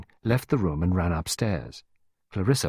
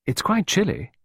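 advising; 10 semitones higher than usual. A narrator's reading. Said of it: "Clarissa advised".

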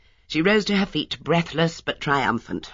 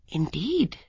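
thoughtful; 8 semitones higher than usual. A narrator's reading. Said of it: "said Miss Marple thoughtfully".

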